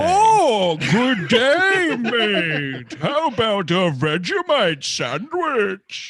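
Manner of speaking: loud, high Aussie impression; Australian accent. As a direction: shout it like a stereotyped Aussie. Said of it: "Australian accent".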